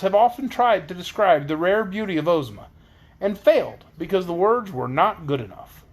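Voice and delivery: put-on expressive read-aloud of a children's book; story narration. A narrator's reading. Reader telling of Princess Ozma's beauty, story narration. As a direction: read the chapter out to listeners.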